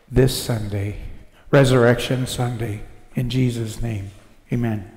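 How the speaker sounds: soft, earnest opening prayer; hushed pastor's prayer. Acted. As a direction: pray over the congregation gently.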